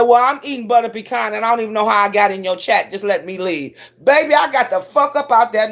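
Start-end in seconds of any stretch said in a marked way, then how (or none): 0.0-3.8 fast, embarrassed babble; flustered rush. Retold or imitated. Excusing herself from the chat, fast and flustered. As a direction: hurry through it to get out. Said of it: "I said".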